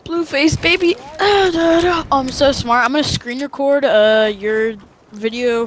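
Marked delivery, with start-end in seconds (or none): 0.1-2.0 hyped rapper ad-lib impression; rapper catchphrase voice. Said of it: "you can't talk in that voice".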